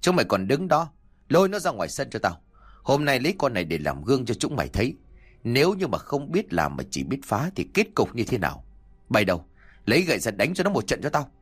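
a hint of an angry landlord shouting at servants; barking orders. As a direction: snap orders at the servants, fast. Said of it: "mà quát".

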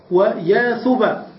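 "ثبا" drawn out slowly with the final a; slow full form. Shown as a demonstration. Teacher to students: slow, careful "ويا ثبا".

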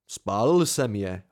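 slow, pointed, mildly offended; offended retort. Acted. Narrator answering friend about the bandages, offended. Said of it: "odsekl jsem uraženě".

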